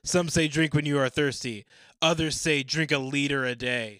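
loud Aussie reading voice; Australian accent. Acted. Reading a forum answer in an Australian accent. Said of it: "in my Down Under accent".

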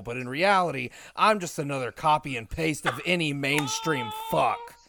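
mocking imitation. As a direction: ham up a sneering parody of him. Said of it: "And you're like".

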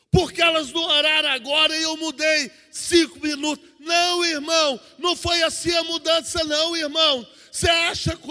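emphatic rhetorical questions from the pulpit; insistent, forceful preacher; impassioned preaching. Acted.

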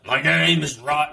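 playful movie-chant imitation; Fight Club imitation. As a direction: imitate a half-remembered film line. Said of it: "it's like Fight Club".

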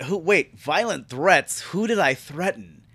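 mildly baffled retold question; toned-down disbelief. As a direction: question it with restrained confusion, no swearing. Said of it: "I didn't say it like that".

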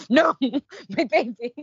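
high, loud flustered protest; panicked dad. Retold or imitated. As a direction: cry out like a horrified father. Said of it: "he's like".

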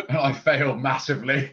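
munching crisps mid-sentence; chewing while talking. Real, not acted. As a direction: mouth full of crisps. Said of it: "I'm trying to eat crisps subtly".

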